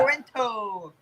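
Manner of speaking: imitating "Toronto" with every syllable and the T sounded; imitated full pronunciation. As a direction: copy the over-careful "Tor-on-TOE". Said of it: "pronounce it Toronto".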